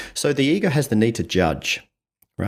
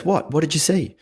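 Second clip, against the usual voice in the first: desperate to know; 6 semitones higher than usual. Retold or imitated. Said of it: "desperate to know".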